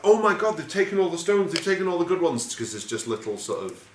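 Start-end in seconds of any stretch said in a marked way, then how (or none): 0.0-2.5 put-on high, loud, panicked kid wailing; high-pitched frantic kid voice; panicky kid Georgie. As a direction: squeal it like a scared kid who's lost his ammo. Scared kid Georgie finds no stones.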